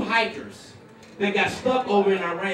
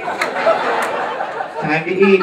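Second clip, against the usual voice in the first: instructing wife; 3 semitones lower, 4 dB louder, much slower than usual. Acted. Acts wife ordering husband.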